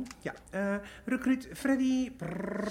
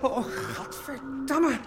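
disgusted; slower than usual. Acted. Finds rotten apple core.

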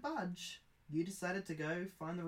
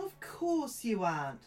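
higher, slower doll mother voice; 7 semitones higher, 6 dB louder than usual. Acted. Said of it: "says the mother doll".

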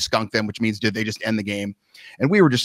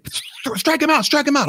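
coach yelling; 13 semitones higher than usual. Retold or imitated. Coach yelling at the pitcher, mock yell. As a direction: bark it from the dugout. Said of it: "the coach is yelling at me now".

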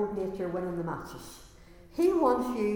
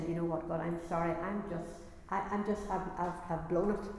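humble confession; 3 semitones lower, 3 dB quieter than usual. Acted. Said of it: "you need to be coming and saying".

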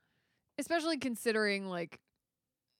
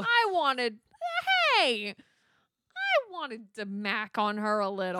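laughing villain whine; 5 dB louder, slower than usual. Retold or imitated. Acting the villain's complaint.

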